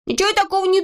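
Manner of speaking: high, fast hurt protest; offended. A narrator's reading. Neznaika defending himself against Vorchun, high and fast. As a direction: snap back, stung. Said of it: "обиделся Незнайка".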